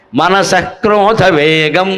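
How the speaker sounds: మనసక్రోధ spelled out slowly with a rising end; slow recitation. Shown as a demonstration. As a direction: lay out మనసక్రోధ వేగం syllable by syllable. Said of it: "వేరే వేగాలు చెప్పాడు".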